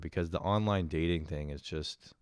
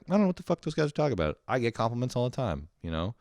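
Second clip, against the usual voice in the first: smug dismissal; 4 semitones higher, faster than usual. Retold or imitated. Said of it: "at first I was like".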